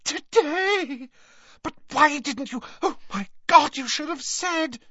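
put-on high, excited girl's voice. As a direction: blurt it out in a flap. Hermione voiced in audiobook.

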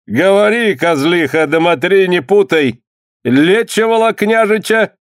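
put-on a boyar barking questions at a healer; stern boyar. Boyar questioning the healer, stern. Boyar interrogates, narration beside.

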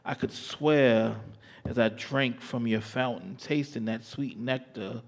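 slow, sensual spoken word; poem recitation. Acted.

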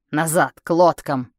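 frantic retreat order; shouted order. Acted. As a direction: shout it over the battle. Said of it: "крикнул я Ари".

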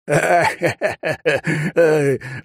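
high bursting laugh; hearty laugh. Acted. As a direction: laugh it off, delighted. Old man bursts out laughing.

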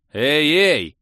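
громкий высокий окрик; завопи, срочно останавливая её; вопль. A narrator's reading. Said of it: "завопил я". (протестующий вопль)

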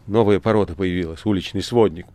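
громче, гневно и презрительно; отчитай наглеца в гневе. Acted. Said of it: "Маргарита очень разгневалась". (Маргарита в гневе, громче)

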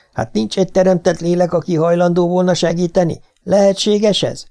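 high, pleading disbelief; desperate appeal. A narrator's reading. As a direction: plead with anyone who might hear. Desperate victim's plea in story.

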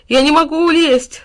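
high, loud mock sobbing; sobbing wail. A narrator's reading. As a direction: wail in despair like a character in tears. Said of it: "снова зарыдал он". (рыдающий вопль)

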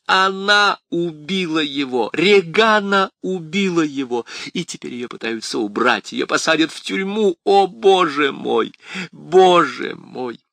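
громкий высокий надрывный плач; кричи сквозь рыдания; anguished wailing. A narrator's reading. Крис рыдает и кричит. (отчаянный вопль)

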